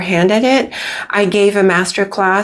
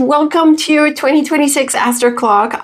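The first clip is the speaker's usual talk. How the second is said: bright greeting; 7 semitones higher than usual. Real, not acted. Cheerful channel greeting opening.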